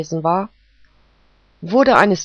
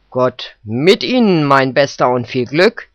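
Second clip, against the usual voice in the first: a touch of benevolent kindness, a little louder; the judge kindly wishes the fox luck; 2 semitones lower, 5 dB louder than usual. Acted. Judge greets the prosecutor with mild benevolence. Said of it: "erwiderte Richter Känguru wohlwollend".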